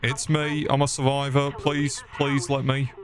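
playful survivor's appeal; mock pleading. Answers radio call for survivors.

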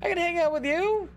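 playful, teasing, high flirty voice. Pretend. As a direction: sweet-talk her, coaxing.

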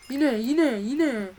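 exasperated outburst. Real, not acted. Annoyed at repeated block.

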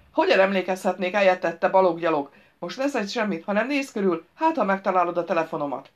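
lightly voiced grouch giving orders; irritable driver, impatient. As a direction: exasperation at a useless helper.

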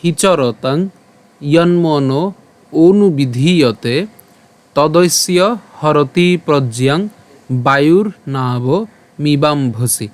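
slow, measured shloka reading; Sanskrit verse recitation. Shown as a demonstration. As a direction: recite phrase by phrase, drawing out the long vowels. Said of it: "আজকের শ্লোকটি হলো". (ধীরে ধীরে শ্লোক আবৃত্তি)

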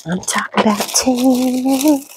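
lightly voiced high ad read; sing-song it like a TV ad; Temu commercial voice. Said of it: "as the commercials say".

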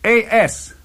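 high, loud exclamation; excited cry. A narrator's reading. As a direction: cry out the initials in recognition. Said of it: "cried my uncle".

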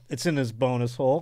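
behind-the-back aside. Acted. Doctor talking behind the patient's back, hushed aside. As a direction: drop the volume as if gossiping about a patient. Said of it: "talking about it behind their back".

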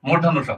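"মূর্ধন্য স" said distinctly as a model; standard pronunciation. Shown as a demonstration. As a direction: pronounce the letter name "মূর্ধন্য স" carefully for learners. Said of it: "এটার উচ্চারণ হবে".

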